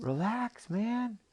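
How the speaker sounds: high, emphatic creature voice; lively cartoon octopus, swooping high; exasperated octopus. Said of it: "And the octopus said".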